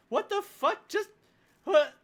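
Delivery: baffled. Real, not acted. GM baffled by a roll.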